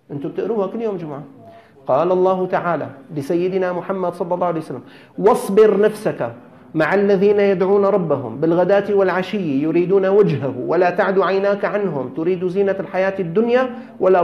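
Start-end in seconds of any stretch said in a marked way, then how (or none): 5.2-14.2 Quran recitation. Acted. Preacher recites the verse to the gathering in chant. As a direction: intone the verse with weight.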